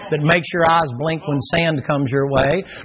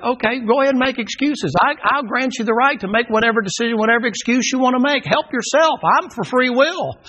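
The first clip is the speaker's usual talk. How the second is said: sarcastic; 7 semitones higher than usual. Real, not acted. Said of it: "sarcastic concession".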